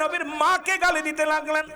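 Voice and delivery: usual speaking voice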